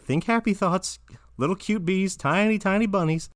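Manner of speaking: high-pitched anxious self-soothing; mock trembling fright. Trembling in Finn's arms after the bird, mock fright. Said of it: "Jake is trembling in Finn's arms".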